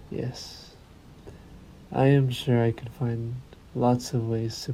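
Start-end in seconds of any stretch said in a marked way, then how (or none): 0.1-0.7 a barely-there hiss of a yes; breathy whispered yes. Acted. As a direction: breathe the word out, delighted. Vampire savors the thought.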